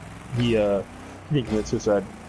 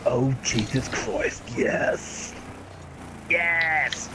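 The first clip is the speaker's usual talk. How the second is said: impression; 5 dB quieter, much slower than usual. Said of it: "the one dude from Independence Day".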